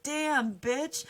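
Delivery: high, punchy outburst; acted admiring exclamation. The sun reacting to the beautiful princess, floored.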